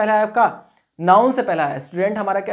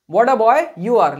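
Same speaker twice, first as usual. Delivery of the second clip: slow dictation; 3 dB louder, much slower than usual. Shown as a demonstration. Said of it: "dictating example slowly".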